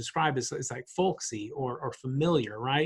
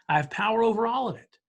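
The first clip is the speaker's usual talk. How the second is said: intense higher whisper; 7 semitones higher than usual. Retold or imitated. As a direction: breathe it as a promise. Voicing Jesus' reassurance.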